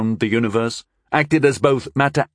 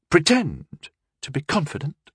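wry, bitter amusement; a touch of bitter humour; bitterly amused; 6 semitones higher than usual. A narrator's reading. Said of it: "bitterly amused".

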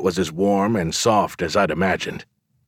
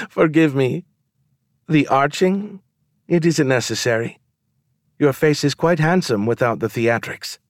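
higher, lilting woman's voice trying not to laugh; fighting laughter; 7 semitones higher than usual. A narrator's reading. Woman giggling at the narrator's arching eyebrow, fighting laughter. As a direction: apologize through a giggle, pitched up high. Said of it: "She worked very hard not to laugh".

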